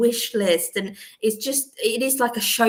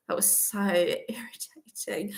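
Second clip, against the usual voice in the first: whispered exasperation; 7 dB quieter, slower than usual. Real, not acted. Exasperated about adverts.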